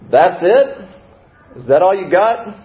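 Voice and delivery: loud, high, challenging call across a room; one-up them loudly from afar; heckler from the back. Acted. Voice from the back outbidding the newcomer's troubles, loud challenge. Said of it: "a voice from the back of the room".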